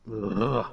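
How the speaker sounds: short exasperated "ugh"; disgusted groan. Real, not acted. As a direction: groan at a tedious chore. Annoyed by the tutorial part.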